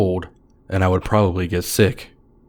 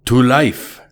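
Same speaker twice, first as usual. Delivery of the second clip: put-on toast in a thick Russian accent, raised and louder; a Russian stranger raising his glass; heavy Russian accent; 4 semitones higher, 5 dB louder than usual. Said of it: "he said in a very heavy Russian accent".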